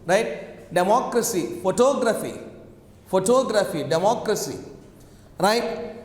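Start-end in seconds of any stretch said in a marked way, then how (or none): 0.7-1.6 democracy stressed on "moc"; stress on second syllable. Shown as a demonstration. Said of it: "we have the stress in democracy". 1.6-3.8 photography stressed on "tog"; stress on second syllable. Shown as a demonstration. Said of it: "So here we say photography". 3.8-4.6 democracy stressed on "moc"; stress on second syllable. Shown as a demonstration. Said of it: "we have the stress in democracy".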